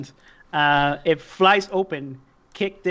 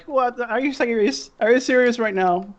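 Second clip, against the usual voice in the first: higher-pitched exasperated appeal; incredulous pleading; 5 semitones higher, faster than usual. Acted. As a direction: plead with your crew in disbelief. Acted boss pleading with sick crew.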